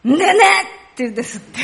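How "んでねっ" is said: short, loud Tsugaru dialect outburst. Shown as a demonstration. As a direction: blurt a comic Tsugaru denial. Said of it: "津軽弁だったら". (津軽弁で勢いよく否定)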